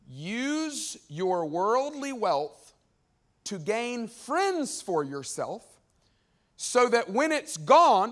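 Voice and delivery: slow, drawn-out reading of a verse; stretched, deliberate Bible reading; scripture reading. Acted. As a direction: read the verse out slowly, weighing each word. Reads scripture aloud slowly.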